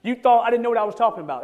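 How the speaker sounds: plain restatement. Shown as a demonstration. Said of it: "that's how you would say it".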